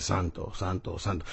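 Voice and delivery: rezo monótono, grave y suave; como rezando. Retold or imitated. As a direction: repite en voz baja como letanía. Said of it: "Parece que estamos rezando". (imitación de rezo aburrido)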